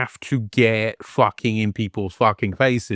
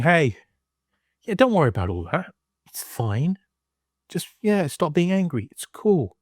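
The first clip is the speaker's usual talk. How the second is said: mock breezy dismissal; 4 semitones higher than usual. Mocking the movie's dismissive message.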